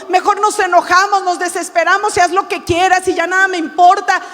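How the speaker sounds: full-force Spanish sermon; fiery preaching. Acted. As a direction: rouse the congregation to fight in faith.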